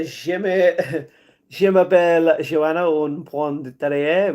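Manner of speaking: shaky schoolbook French, slow and laughing through it. Shown as a demonstration. Showing off her little French to the chat, halting and amused. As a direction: try out the little French she knows, giggling. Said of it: "I know a little French".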